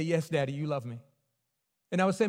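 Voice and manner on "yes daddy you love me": lightly voiced little son, softer; a hint of a small boy; small child answering. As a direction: son answering daddy quietly.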